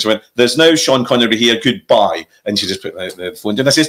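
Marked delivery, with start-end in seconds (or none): 0.3-2.3 lightly mocked Edinburgh accent; imitated Edinburgh woman; bad Edinburgh accent. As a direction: do a poor Edinburgh accent, brusquely dismissive. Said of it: "very bad Edinburgh accent".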